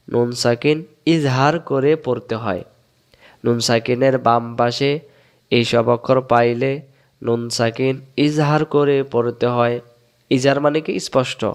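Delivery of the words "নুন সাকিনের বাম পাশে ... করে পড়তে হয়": slower repeat. Shown as a demonstration.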